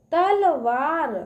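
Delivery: तलवार slow, part by part; sounding out syllables. Shown as a demonstration. Teacher sounds out a word for children, slowly. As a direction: read तलवार in slow pieces. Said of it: "व पे आ की मात्रा है".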